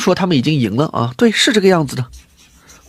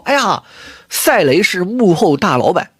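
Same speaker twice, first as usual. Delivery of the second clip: slow, sing-song mock of their claim; sneering parody of online fans; slower than usual. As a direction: drag it out like parroting a silly rumor. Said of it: "拿着这个切片到处说".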